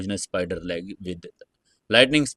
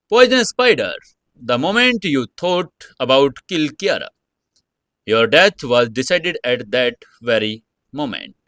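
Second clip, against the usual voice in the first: cold voice; 4 semitones higher, 5 dB louder than usual. Acted. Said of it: "Summer said in a cold voice".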